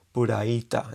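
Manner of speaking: "puraita" in syllables, lengthened i without y; Japanese rendering. Shown as a demonstration. Teacher respelling playita for learners, Japanese rendering. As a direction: say "puraita" with pu-ra, then long i. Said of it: "ya alargada y ya está".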